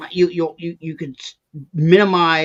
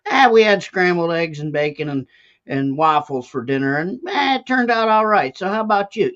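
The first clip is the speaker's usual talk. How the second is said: rambling folksy story; 3 semitones higher than usual. Retold or imitated. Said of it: "You know".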